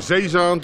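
zeezaand with a long broad aa; slow Tilburg zeezaand; Tilburg dialect. Shown as a demonstration.

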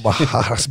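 Bajadas, the RR spoken as an H; Portuguese pronunciation. Shown as a demonstration. Repeating the gym name Bajadas, H for RR. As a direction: Bajadas with an H in the middle. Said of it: "but it's two R's".

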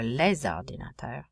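"les ordinateurs" linked with a Z sound; liaison. Shown as a demonstration. Teacher demonstrating for students, "les ordinateurs" with liaison. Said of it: "we'll use a liaison".

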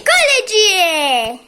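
football commentator. Pretend. Drawn-out commentator call.

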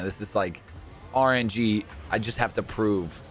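normal talking voice

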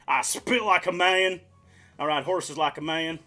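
rough attempt at a Texan accent. Streamer attempting a Texan for the viewers, amateur Texan accent. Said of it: "I've never heard a Texan before".

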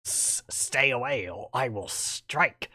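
slow, lightly voiced hissing threat from a snake; menacing snake. Player voicing the game snake's warning, slow and menacing. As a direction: warn them off like a coiled snake, slowly. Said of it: "Hey, it actually talks".

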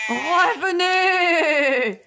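abandoned queen wailing after the departing sisters; wailing plea. A narrator's reading. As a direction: stretch the cry out desperately. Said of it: "gémit la reine".

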